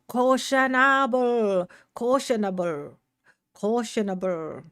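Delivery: playful Irish lilt on "Cautionable"; put-on Irish accent. Streamer playing with a word, Irish accent. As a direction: draw out "Cautionable" in mock Irish. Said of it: "turn that Irish".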